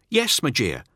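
high, anxious report; nervous underling. Acted. Teth reporting his losses to Null, high and anxious. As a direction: rush out the bad news. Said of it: "He pauses".

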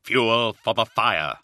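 slow, musing reply; pondering aloud, unhurried; half to himself. Acted. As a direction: draw the words out as a private thought. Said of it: "half to himself".

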